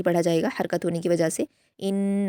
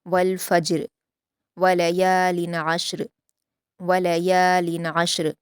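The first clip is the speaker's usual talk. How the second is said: slow, melodic Quranic recitation; measured Quran recitation; tajweed recitation; slower than usual. Shown as a demonstration. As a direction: recite it slowly and carefully as a model for students. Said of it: "जीम पर कलकला किया जाएगा".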